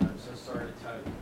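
soft, hushed delivery of a death; doctor telling a daughter her father died, soft and quiet; gentle bad news. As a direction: break the news gently and softly. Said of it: "I said".

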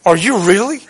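lightly voiced tempter, questioning with a rise; Satan casting doubt. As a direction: plant doubt, softening on the second question. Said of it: "So when Satan goes".

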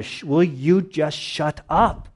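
slow, exasperated mock rebuke; going after him. Crowd goes after the blind man, exasperated rebuke. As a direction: draw out an acted telling-off. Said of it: "they're really going after him".

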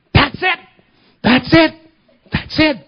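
high, loud repeated cries of joy; ecstatic cry. Retold or imitated. Healed bullfighter cries out during prayer, high ecstatic cries. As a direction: burst out as the pain leaves you.

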